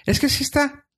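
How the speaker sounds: high, dopey customer-service voice; voz de tonto. Retold or imitated. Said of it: "Me gusta la voz que hace". (voz de tonto aguda)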